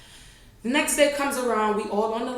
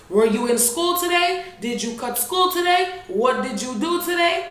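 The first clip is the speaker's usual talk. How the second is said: higher, louder demanding mom; angry mom; 7 semitones higher, 4 dB louder than usual. Retold or imitated. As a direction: interrogate like a suspicious mother. Mom confronting her daughter.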